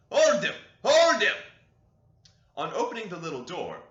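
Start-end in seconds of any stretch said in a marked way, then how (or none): 0.1-0.5 very loud, high command; urgent loud command; shouting at dogs. A narrator's reading. Urging dogs to hold. 0.8-1.3 even louder, high command; louder repeated command; shouting at dogs again. A narrator's reading. Urging dogs to hold.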